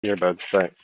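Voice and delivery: tinny speakerphone sound; like talking through a phone speaker. Real, not acted. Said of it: "You sound like you're on speakerphone".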